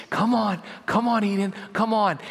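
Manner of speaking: retold eager parent urging; coaxing parent. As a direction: coax a baby into first steps. Parent coaxing a toddler to walk.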